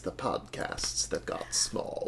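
slow, hushed melodrama; grand film-star parody. Acted. Movie line parody of faded star.

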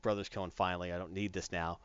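embarrassed grumble. Retold or imitated. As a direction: mutter it under your breath, embarrassed. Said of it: "He, you know, it's like".

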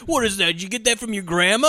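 incredulous teasing; mock incredulity. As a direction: act out people baffled by the drink. Retells people mocking his drink.

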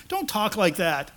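slow, mild mock scolding; retold rebuke. Peter takes Jesus aside to correct him, mildly rebuking. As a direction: draw out a gentle telling-off. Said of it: "Taking him aside and rebuking him".

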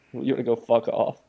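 lightly voiced Boston "wanna go fuck off"; a milder retake of the Boston line; relaxed mock Boston, near the speaker's own voice; Boston accent. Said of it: "someone from Boston said that to him".

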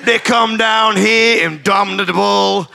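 put-on Deep South lawyer accent. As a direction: lay on a Deep South twang for the jury. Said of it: "in the style of a Deep South defense lawyer".

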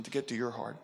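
soft breathy whisper to the heart; hushed, intimate whisper. Real, not acted. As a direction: drop to a whisper, drawing them in. Intimate aside within preaching.

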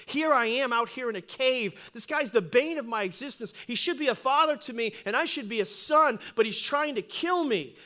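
preached-out rant building to a loud, high peak; aggrieved outburst in a preacher's cadence; David's inner grievance. Acted. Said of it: "he's thinking".

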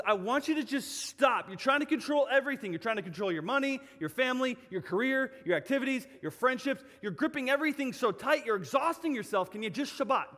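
impassioned preacher speaking as God; urgent divine plea. Acted. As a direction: press them to stop, item after item. Voices God urging listeners to stop.

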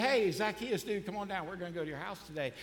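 Jesus inviting Zacchaeus, gently and friendly; friendly, casual. Retold or imitated. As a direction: invite him down like a buddy. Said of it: "I don't think that's how Jesus said it".

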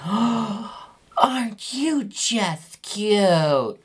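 put-on high, slow, sugary old-lady coo. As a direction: gush over the dog like a doting old woman. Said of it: "It was like that voice".

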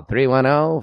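a hint of a nineteen forties radio ad; 1940s voice. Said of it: "I'm gonna do the voice that I was doing earlier".

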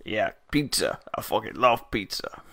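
a hint of put-on New York accent; lightly voiced stock New Yorker; mock New York stereotype. Host playing stereotypes for co-hosts, mock New York accent. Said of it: "trying to think of just stereotypes now".

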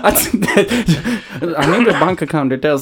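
a hammed-up Thai accent drifting toward Nigerian. Host keeps the accent going while his cohosts laugh. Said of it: "Sometimes you sound like you're coming a little bit from Nigeria".

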